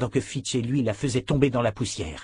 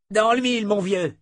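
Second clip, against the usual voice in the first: high, raised cheer; cri d'encouragement; 10 semitones higher, 3 dB louder than usual. A narrator's reading. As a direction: call out approval to your pal. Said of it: "cria Morley". (bravo crié, voix très montée)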